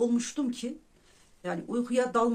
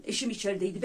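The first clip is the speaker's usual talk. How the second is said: normal talking voice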